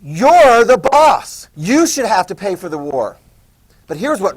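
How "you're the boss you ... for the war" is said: loud, slowly stretched mockery; mocking colonist, much slower on the boss; sarcastic colonists. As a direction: needle Britain with fake deference. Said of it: "the colonists are going".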